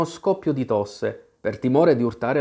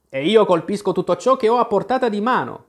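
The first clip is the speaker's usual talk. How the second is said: shouted; 7 semitones higher, 4 dB louder, faster than usual. A narrator's reading. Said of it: "gridò Tweedledum".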